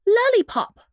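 a fussing mother explaining her sick pup; mother dog voice, a touch anxious; worried mother dog. A narrator's reading. Missus Bow Wow's worried lines.

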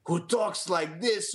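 a light, goofy put-on voice; silly villain voice. Shown as a demonstration. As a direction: say it like a cartoon henchman. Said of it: "That's not what he sounds like".

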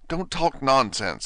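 boldly. Acted. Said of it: "said Alice more boldly".

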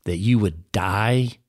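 lightly voiced tempter, coaxing; a hint of the serpent sweet-talking; tempter's coax. Preacher as the tempter urging a bite of fruit, coaxing.

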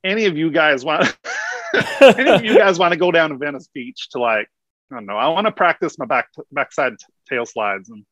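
an Aussie doing a California skater bro; American accent. Shown as a demonstration. Australian guest riffing in an American accent, half laughing. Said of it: "I'm gonna try it".

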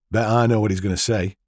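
smug and knowing; grinning as he needles; a cheeky mocking aside; mocking grin. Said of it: "with a mocking grin".

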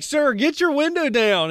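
calling out loud. Retold or imitated. Calling through window.

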